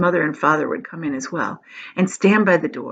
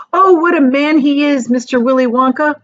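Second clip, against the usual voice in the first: loud, raised exclamation; excited cry; 6 semitones higher, 6 dB louder than usual. Acted. Grandpa Joe crying out to Charlie, loud and excited. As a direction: cry it out in wonder. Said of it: "cried Grandpa Joe".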